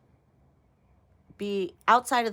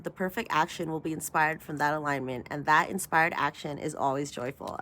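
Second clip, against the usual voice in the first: reading an affirmation. Shown as a demonstration. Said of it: "Let me read this again".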